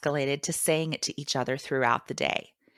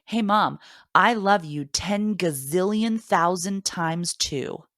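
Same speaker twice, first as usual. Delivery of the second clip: son's boastful claim; 3 semitones higher, 4 dB louder, slower than usual. Retold or imitated. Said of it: "attach numerical figures to our claims".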